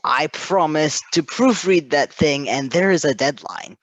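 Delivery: remembering with a jolt; mock alarm at a forgotten promise; retold sudden realization. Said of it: "I was like".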